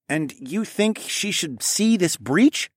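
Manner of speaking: slow skeptical father voice; suspicious father. A narrator's reading. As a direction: question him warily. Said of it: "narrowed his eyes".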